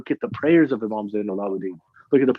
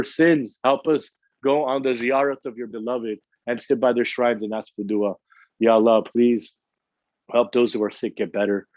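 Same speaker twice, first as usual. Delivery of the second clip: prayer. Acted. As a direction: plead with God humbly and sincerely. Closing supplication to God.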